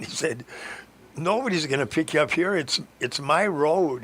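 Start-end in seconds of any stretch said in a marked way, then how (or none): 1.2-4.0 raised, higher voice, slowing at the end; a farmer telling off a stranger on his road; gruff farmer. Retold or imitated. Farmer scolding a hitchhiker on his private road, raised and gruff.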